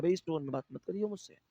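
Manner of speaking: mock offended retort, quick and soft at first; retelling a friend's annoyed reply; imitating an offended person. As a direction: play someone telling you off for your tone. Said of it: "तो वो हमसे क्या कहता है".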